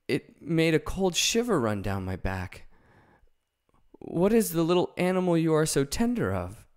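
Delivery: the big cat musing aloud; the lion talking to Dorothy about his claws; lion's voice. Acted.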